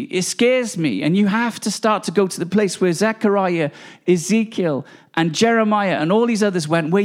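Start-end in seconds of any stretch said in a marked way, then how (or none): 0.0-1.0 slow, weighty repeat of scares; slow it right down and let scares sink in. Real, not acted. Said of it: "sometimes it scares me".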